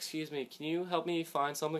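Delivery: put-on gentle, quiet, soft-spoken little old lady voice. Retelling an old lady who came up asking for help, in a soft-spoken old lady voice. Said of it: "She was very soft-spoken".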